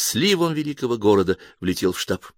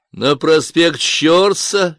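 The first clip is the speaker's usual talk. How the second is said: cheerful question; 7 semitones higher, 5 dB louder, much slower than usual. A narrator's reading. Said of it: "весело спросил Самсик".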